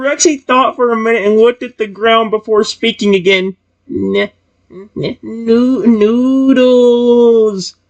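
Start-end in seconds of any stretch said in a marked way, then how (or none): 3.9-7.7 spooky, very slow, stammering ghost voice. Reading a story aloud, voicing the character Rexy: Rexy ghost voice. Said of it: "I'm doing his voice like a ghost instead of a zombie".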